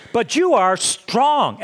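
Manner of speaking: slow, punched "strong" with an exclamation point; exclamatory emphasis. Retold or imitated. Preacher reads Paul to the Corinthians, exclamatory stress on "strong". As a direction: land hard on "strong", drawing it out. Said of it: "Exclamation point".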